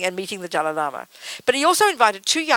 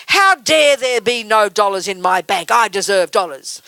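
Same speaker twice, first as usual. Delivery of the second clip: slow, louder mock outrage; mock indignation; 6 dB louder, slower than usual. Imagined bank customer demanding the dollars they deserve, mock indignant. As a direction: ham up entitled outrage. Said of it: "you don't say".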